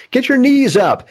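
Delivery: high, loud sideline yell; mock parent yell. Imitating parents yelling at sprinter kids from the stands. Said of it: "parents yelling at their sprinter kids".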